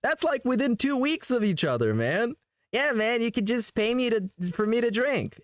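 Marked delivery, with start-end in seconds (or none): 2.7-5.4 raised, whiny mock voice; mocking whine. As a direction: parody a streamer begging for tips. Mocks streamer's begging.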